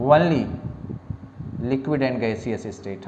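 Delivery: very slow, each word drawn out; slow note-taking pace; slow dictation. Shown as a demonstration. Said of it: "dictation to students".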